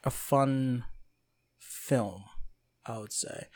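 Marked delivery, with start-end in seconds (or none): 0.0-2.2 high-pitched, light gushing quote; mock delight at a trailer, pitched up high; thrilled reaction. Host retells watching the Venom trailer, high delighted gush. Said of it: "I was like".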